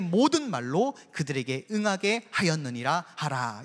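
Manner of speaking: reading scripture aloud together; solemn group reading of scripture. Real, not acted. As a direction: read the verse aloud in unison with the congregation. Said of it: "우리 팔 절 한번 함께 읽겠습니다".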